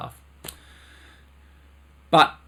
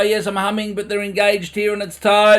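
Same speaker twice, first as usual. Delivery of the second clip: imitating students; 7 semitones higher, 6 dB louder than usual. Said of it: "people will go".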